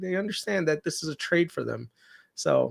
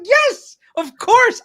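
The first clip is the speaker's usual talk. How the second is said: much higher, louder mock eager yes; eager gullible victim; 8 dB louder, much slower than usual. Playing the fooled caller to his cohost, mock eager. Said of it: "you're like".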